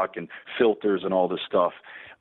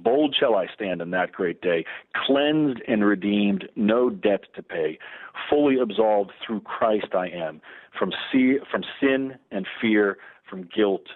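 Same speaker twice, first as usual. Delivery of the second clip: slow, measured reading of sacred verse; spoken hymn, unhurried and reverent; prayerful hymn recitation. Real, not acted. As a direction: recite the stanzas deliberately, line by line. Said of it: "pray or say those first two stanzas".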